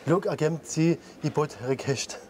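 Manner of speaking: reversed German sentence; backwards speech. Shown as a demonstration. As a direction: say "Look, agent, sie, i bot request" as reversed German. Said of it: "Checker Tobi ist mega cool".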